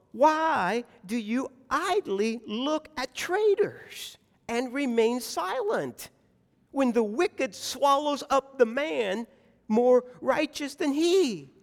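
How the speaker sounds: slow, drawn-out questioning of God; troubled plea. Acted. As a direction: press each word as an anguished reproach. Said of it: "this really is troubling him".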